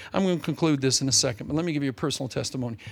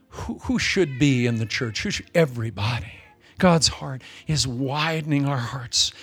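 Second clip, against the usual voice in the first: closing prayer; 2 semitones lower than usual. Acted. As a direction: pray over the congregation, unhurried and fervent.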